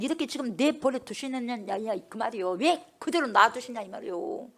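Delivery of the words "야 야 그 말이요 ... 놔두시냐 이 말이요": ordinary talk, nothing marked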